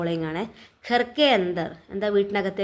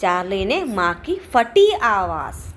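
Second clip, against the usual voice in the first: ഫട്ടി drawn out slowly; teacher slowly stressing the added word; 4 dB louder, slower than usual. Shown as a demonstration. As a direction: dwell on ഫട്ടി. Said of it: "അമ്മയുടെ എങ്ങനത്തെ സൗണ്ടാണ്?".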